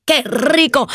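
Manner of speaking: put-on slow, savoring Cuban kid's delight; delighted child. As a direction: drawl out chocolate like a hungry child.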